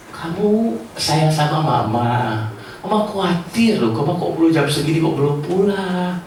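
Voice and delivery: put-on reach the child with care, not anger; caring mum voicing her worry; gentle worried mum. Shown as a demonstration. Wise parent asks gently instead.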